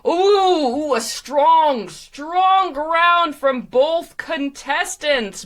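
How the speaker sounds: big, drawn-out game-show host; hyped show announcer. Acted. Announcer praising both contestants, hyped and showy. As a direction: stretch key words high and showy.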